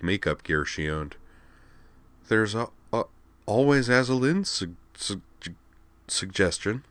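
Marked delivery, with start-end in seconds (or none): 2.3-6.8 wry. A narrator's reading. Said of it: "she added wryly".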